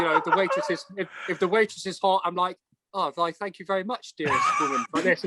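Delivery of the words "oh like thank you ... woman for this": lightly put-on courtly politeness; a hint of a period-drama suitor; mock posh Bridgerton gent. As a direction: play the overly formal gentleman. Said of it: "one minute I'm in Bridgerton".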